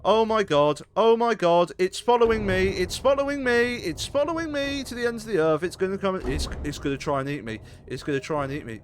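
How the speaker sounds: high, loud panicked cries; panicking gamer. Real, not acted. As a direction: panic as it chases you. Chased by creature, panicking.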